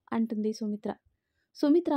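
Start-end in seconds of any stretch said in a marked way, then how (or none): 1.6-1.9 sharp, raised call of her name; stern warning to his wife; angry. Acted. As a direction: snap the name out in anger. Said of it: "కోపంగా చూశారు".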